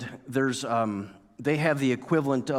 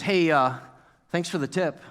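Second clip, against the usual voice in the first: casual thanks with a hint of sarcasm; retold offhand thanks, faintly sarcastic; seemingly sarcastic thanks. Server thanking departing customers for the tip, faintly sarcastic. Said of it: "that little sarcasm".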